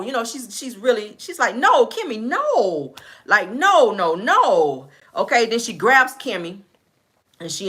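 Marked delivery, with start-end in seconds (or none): 1.5-4.9 imitated tearful denial. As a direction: retell a friend's distressed refusal to believe it. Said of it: "Tisha starts crying, and she says".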